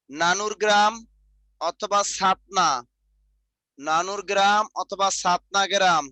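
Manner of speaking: slow, word by word for note taking; slow dictation. Shown as a demonstration. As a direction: spell it out slowly so the class can write. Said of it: "লেখেন জন্মস্থান". (ধীরে ধীরে শ্রুতলিপি)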